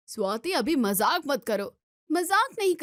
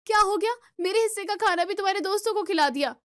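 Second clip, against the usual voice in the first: angry outburst; 6 semitones higher, faster than usual. Acted. Wife shouting at her husband over her lost meal, angry and fast. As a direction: burst out at him in anger.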